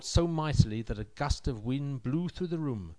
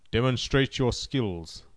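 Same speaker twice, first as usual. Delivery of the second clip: stern emperor voice; 4 dB louder than usual. Acted. Emperor commands the samurai.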